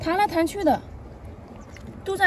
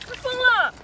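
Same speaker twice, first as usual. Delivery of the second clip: startled yelp; 9 semitones higher, 4 dB louder, slower than usual. Real, not acted. Creature thrashes again, startled.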